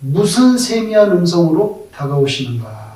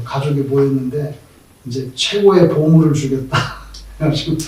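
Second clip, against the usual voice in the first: normal talking voice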